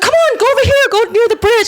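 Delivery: high, pushy, cheerful directions; lightly voiced excited lady; eager stranger. Lady directing her to bridge.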